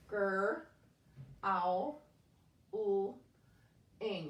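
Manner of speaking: "Gr", "ow", "l", "ing" each said apart; sounding out parts. Shown as a demonstration. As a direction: break the word into its parts, slowly. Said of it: "Say the sounds as you do so".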